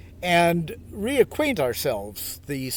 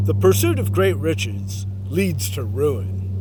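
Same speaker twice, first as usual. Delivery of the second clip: put-on measured, declaiming read of an old text, louder on the middle lines; solemn scripture reading; 4 dB louder than usual. Host reading the Tao to meditators, solemnly declaimed. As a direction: read it out like a sacred passage.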